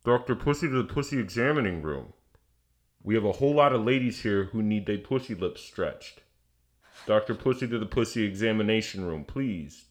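mock hospital page over the PA; PA announcer. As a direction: announce it evenly like a clinic PA. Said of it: "It's the P A system".

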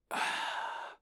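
long voiceless sigh; heavy sigh. Acted. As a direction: let out a long, airy sigh. Waking up to find the brace.

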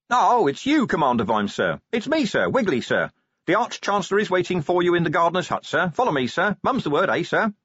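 high, eager underling's voice; porter Wiggly. A narrator's reading. Porter furtively welcoming the commander to the university, high and eager. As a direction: greet the commander in a high conspiratorial voice.

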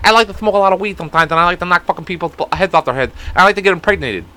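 a hint of a boxer's lisp-free ramble; half-hearted boxer impression; Mike Tyson voice. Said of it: "Mike Tyson talks like this".

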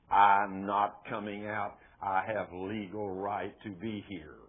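lightly acted demon, slow and low; a slow, stubborn refusal in a hint of gruff voice; gruff man's voice. Demon refusing the preacher's command to leave, lightly gruff. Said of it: "I heard this gruff man's voice".

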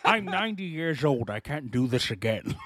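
a hint of old Scottish film star; lightly voiced Sean Connery. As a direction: lightly mimic an aging Scottish actor. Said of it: "Okay, Sean".

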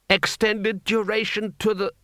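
high, slow proclamation; high-pitched slogan from a battered captive; dazed declaiming. A narrator's reading.

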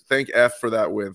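"thank F" with the letter F standing in for the swear word; censored swear. Shown as a demonstration. Podcast host minces the swear word while thanking the team for the win. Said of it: "Sorry, we're in a show".

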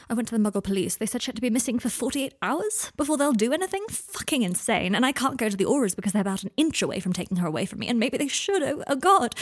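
panicked rant. Acted. Draco to Harry about his missing ward, panicking.

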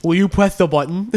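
put-on lisping baby talk. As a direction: say it like a toddler. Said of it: "in the baby speak voice".

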